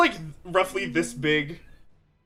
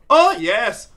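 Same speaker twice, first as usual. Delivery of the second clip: hammed-up fake wood elf, pitched up; badly lying assassin; 3 semitones higher than usual. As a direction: overact an innocent disguise, stretching the final boast. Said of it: "an assassin so bad at lying".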